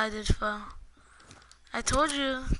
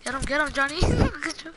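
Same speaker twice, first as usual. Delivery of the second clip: excited; 4 semitones higher, 5 dB louder, faster than usual. Real, not acted. Cheering teammate on.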